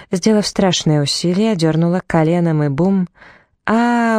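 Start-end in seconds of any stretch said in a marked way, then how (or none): 3.7-4.2 a sharp high cry of pain; yell of pain. A narrator's reading. Man kneed in the groin cries out, a high pained yell. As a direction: yelp as if kneed. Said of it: "он завопил от боли".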